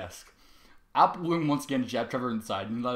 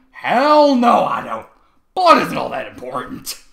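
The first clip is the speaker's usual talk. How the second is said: loud; 9 semitones higher, 15 dB louder, slower than usual. Acted. Trevor rants about blood.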